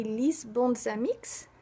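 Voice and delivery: "lis bons amix" very slow, in Provençal; Provençal pronunciation. Shown as a demonstration. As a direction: spell out "lis bons amix" slowly, word by word. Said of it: "pour redonner les mêmes exemples".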